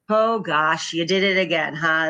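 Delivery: easy, playful teasing, no blame; lighthearted. Retold or imitated. Mom teasing her son about the lost ball, lighthearted. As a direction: shrug it off with a light laugh in the voice. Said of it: "now I'll say things like".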